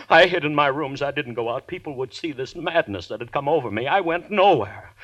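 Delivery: wound-up, half panicked; agitated. Acted. Daryl recalls his madness, agitated.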